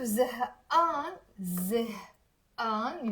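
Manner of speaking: زهقان said slowly, stretching the vowel; drawn-out uh sound. Shown as a demonstration. Teacher stretching the sound for students, slow. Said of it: "you see the uh sound".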